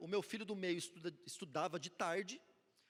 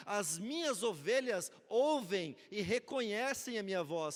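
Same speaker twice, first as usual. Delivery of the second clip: preaching; 5 dB louder, slower than usual. Acted. Quoting scripture with emphasis.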